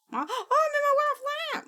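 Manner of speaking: high, fast startled gasp; surprised gasp. Real, not acted. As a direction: gasp like you just got caught.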